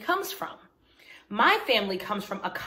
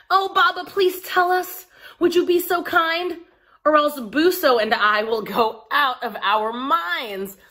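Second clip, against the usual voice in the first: put-on eager begging children; 6 semitones higher, 8 dB louder than usual. Children beg their father.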